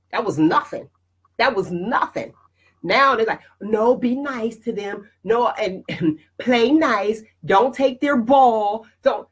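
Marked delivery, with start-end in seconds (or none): 3.6-9.3 mock coddling parent. Mocks overprotective parents' scolding.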